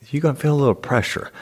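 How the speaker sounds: high, quick nurse voice; imitated nurse. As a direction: rattle off a high-pitched heads-up as the nurse. Quotes the nurse giving warning.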